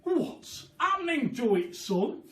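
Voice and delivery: high, loud alarmed cry. Acted. Mister Killiecranky seeing the chicken grow, high alarmed cry. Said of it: "cried Mister Killiecranky".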